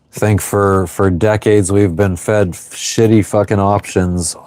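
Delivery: ordinary talk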